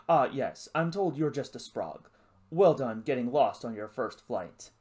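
mildly condescending posh English officer; posh accent. Acted. Lizard teases the new cadet, posh English accent. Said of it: "It spoke with a posh accent".

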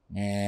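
soft, low keyboard hum; imitated keyboard drone. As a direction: mimic the synth coming in quietly. (tiruan pelan dengung keyboard)

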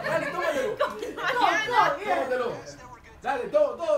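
cheering. Real, not acted. Cheering someone to drink.

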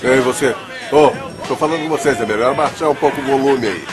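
tipsy slurred heckling; drunk. Acted. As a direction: call out like a drunk man. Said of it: "tão bêbados que nem você".

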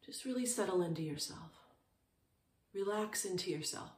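calm, unhurried meditation guidance with long pauses; short, settled phrases with room to breathe; guided meditation. Real, not acted. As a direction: guide listeners gently into stillness, leaving space between phrases.

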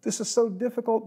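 mild lament. Retold or imitated. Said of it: "it's okay to go to God and say".

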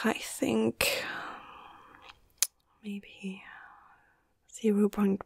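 fading to a very soft murmur; thinking aloud. Acted. Medic unsure of the dosage, murmuring to self. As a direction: trail away into a near-whisper, working it out.

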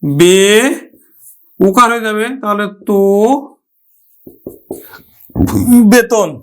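বেতন with middle o, be-ton; teacher models বেতন; pronunciation demo. Shown as a demonstration. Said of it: "উচ্চারণ করব কিন্তু".

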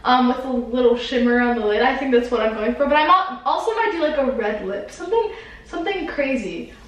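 lightly voiced beauty guru; bright tutorial host voice. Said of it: "You're really a beauty guru".

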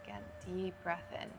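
unhurried yoga breathing cues with long pauses; measured, spacious yoga nidra instruction; guided meditation. Real, not acted. Leads yoga nidra breathing for sleep.

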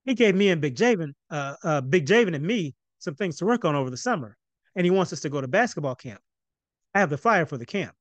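eager, rushing telling; excitedly. Acted. Excited son tells parents about camp. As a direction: tumble through the news. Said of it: "continued even more excitedly".

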